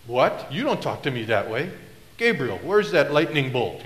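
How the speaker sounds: lightly voiced indignant God, pitch swooping; hammed-up divine disbelief; mock-offended God. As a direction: play God taken aback, then calling for punishment. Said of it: "he's gonna go".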